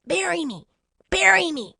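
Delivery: high, tiny talking bean; small high-pitched plea; little tiny voice. A narrator's reading. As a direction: squeak it out like a tiny creature. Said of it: "a little tiny voice".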